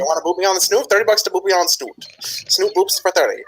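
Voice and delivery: high-pitched shady hustler; pup peddler. Acted. Pup charging for snoot boops, high hustler voice. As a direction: haggle like a little street vendor.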